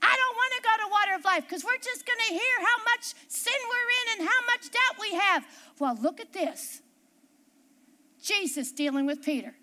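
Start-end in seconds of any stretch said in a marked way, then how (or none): 0.0-5.5 high-pitched mimicked complaint; mock upset. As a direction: imitate a disgruntled churchgoer grumbling. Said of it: "Oh, we get upset".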